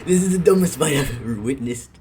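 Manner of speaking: loud, laughing exclaim; loud amused disbelief. Real, not acted. Laughing at a silly fight.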